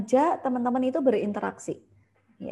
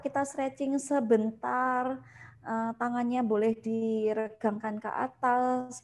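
stretch leader; 3 semitones higher than usual. Shown as a demonstration. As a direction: lead the class through a stretch, slowly. (fasilitator memandu peserta stretching, pelan dan ramah)

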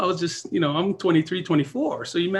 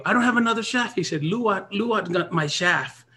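put-on Filipino accent; 5 semitones higher than usual. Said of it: "his thick Filipino accent".

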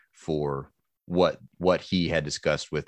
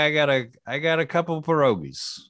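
much higher, strained try at a voice; high-pitched character voice; 10 semitones higher than usual. Shown as a demonstration. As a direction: squeak it out like a hawker. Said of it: "I don't know if I can do it".

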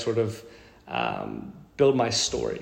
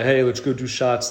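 put-on New York bro accent. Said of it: "you turned on your, like, New York accent".

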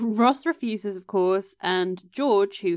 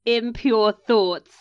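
air quotes; 4 dB louder, much slower than usual. Retold or imitated.

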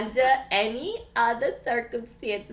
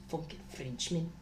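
low, much softer grumble; muttered grudge; 5 semitones lower, 17 dB quieter than usual. Acted. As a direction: grumble it under your breath. Duncan muttering at rival.

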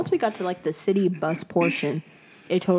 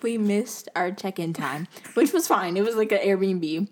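trying not to smile. Real, not acted. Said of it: "I cannot keep a straight face".

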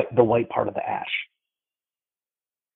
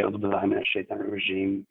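rapid recitation; much faster than usual. Shown as a demonstration. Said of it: "we say".

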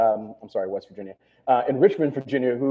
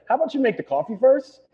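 snarky New York retort; 7 semitones higher, 4 dB louder than usual. Retold or imitated. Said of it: "I was like".

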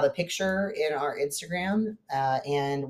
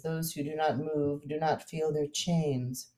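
label quote; 3 semitones higher, 4 dB quieter, slower than usual. Shown as a demonstration. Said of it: "And it says".

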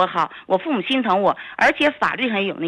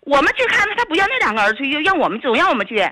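raised voice; 5 semitones higher, faster than usual. Real, not acted. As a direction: complain heatedly, almost shouting. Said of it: "您跟我喊什么呢".

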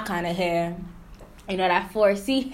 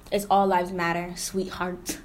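condescending mock. Mocking a condescending partner.

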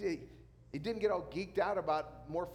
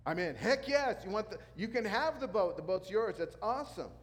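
eager yes; 5 semitones higher, 4 dB louder than usual. Pretend. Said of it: "Peter, of course, would have gone".

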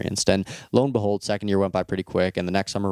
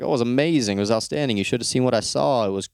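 overly bright, slightly higher put-on cheer; fake enthusiasm; 4 semitones higher, faster than usual. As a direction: oversell the trip like a lie. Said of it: "I lied to everyone".

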